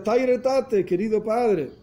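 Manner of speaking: high mild cry of bitterness; a retold, understated bitter wail. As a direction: call out to the father in anguish. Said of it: "gritaba con una voz muy amarga".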